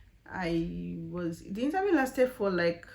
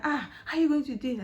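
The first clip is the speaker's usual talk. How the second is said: quicker, lighter repeat of the alarm; surprised colleague; 5 semitones higher, faster than usual. Retold or imitated. Colleague repeats his question while helping her, milder surprise. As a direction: ask again with milder surprise. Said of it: "he was helping me".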